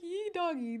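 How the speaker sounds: mock Texan accent. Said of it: "them accent".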